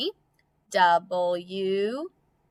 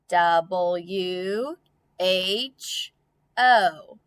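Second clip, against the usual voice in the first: spelling aloud; much slower than usual. Shown as a demonstration.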